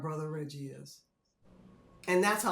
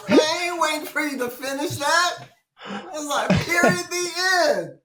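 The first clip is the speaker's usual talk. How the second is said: loud, higher insistence; loud mock panic; 8 semitones higher, 7 dB louder than usual. Recalling Marv in the van, loudly demanding out. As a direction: demand out, no waiting.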